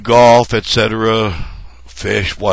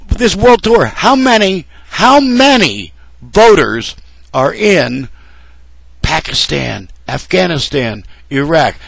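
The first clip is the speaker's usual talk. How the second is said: indignant; 3 semitones higher than usual. Real, not acted. Indignant question to candidates.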